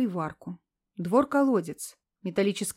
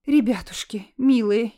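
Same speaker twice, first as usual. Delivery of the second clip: lamenting; 5 dB louder than usual. Acted. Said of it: "запричитала Лидия Андреевна".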